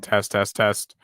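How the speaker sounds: muffled mic check. Real, not acted. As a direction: test through a muffled mic.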